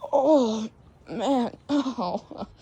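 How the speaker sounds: half-joking groan; pretend pain. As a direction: moan like a wounded character. Voices hurt Cat Kitty Nap.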